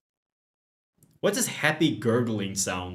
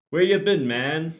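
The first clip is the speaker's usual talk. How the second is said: gym bro; 6 semitones higher, 5 dB louder than usual. Acted. Craig voiced as bro.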